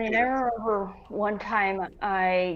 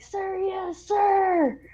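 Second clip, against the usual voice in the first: high, snappy sir yes sir; military reply; 12 semitones higher, much slower than usual. Retold or imitated. Recruit answering officer, high and crisp. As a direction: bark it like a recruit. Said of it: "And I was like".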